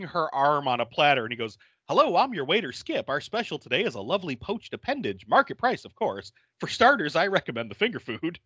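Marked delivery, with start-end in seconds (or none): 1.9-8.4 lightly voiced smarmy waiter, higher; chirpy waiter patter, pitched up; a hint of a cheesy restaurant waiter; mock waiter. Collector as waiter quote.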